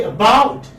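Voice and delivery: "about" as uh-BOUT; teacher modelling "about" with a light first vowel; second-syllable stress. Shown as a demonstration. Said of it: "giving stress on the second syllable".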